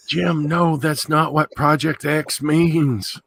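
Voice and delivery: high fussy mock German; high mock scandalised German. Playing scandalised German officer.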